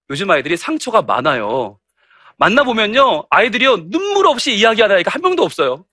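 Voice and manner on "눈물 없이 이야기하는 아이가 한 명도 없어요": normal talking voice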